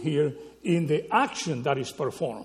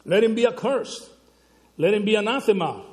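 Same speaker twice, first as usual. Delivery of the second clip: loud emphatic scripture; 5 semitones higher, 5 dB louder, faster than usual. Acted. Preacher quoting Paul's curse.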